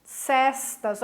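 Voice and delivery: "Cestas" with open E as in "festa"; correct open-E pronunciation. Shown as a demonstration. Teacher repeating the correct pronunciation, open-E "Cestas". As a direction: set "Cestas" apart, opening the E wide. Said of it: "A pronúncia correta".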